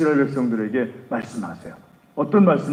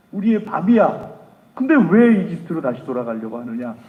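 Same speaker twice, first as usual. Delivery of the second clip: higher, much louder furious scolding; angry rebuke; 4 semitones higher, 5 dB louder than usual. Acted. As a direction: thunder at the crowd for losing faith. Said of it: "하면서 막 화를 내면서".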